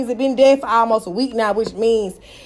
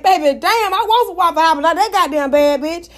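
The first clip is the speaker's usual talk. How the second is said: retold scolding; 4 semitones higher than usual. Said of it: "I said".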